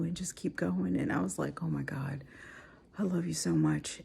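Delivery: hushed, teary whisper; tearful. Real, not acted. Wife recalling her husband's encouragement, tearful whisper. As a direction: let the love break through the tears. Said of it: "So I've already cried".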